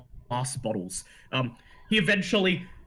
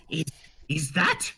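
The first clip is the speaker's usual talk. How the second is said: excited gnome voice; 4 semitones higher, slower than usual. Acted. Gnome sees dragon blood.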